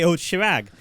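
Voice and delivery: "Chirag" with sh and a flat English a; teachers' mispronunciation. Retold or imitated. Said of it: "the teachers would say".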